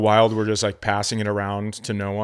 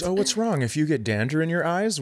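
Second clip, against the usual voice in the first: high-pitched pretend cat voice; imitated innocent cat; 6 semitones higher than usual. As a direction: play the cat asking in a high voice. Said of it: "She goes".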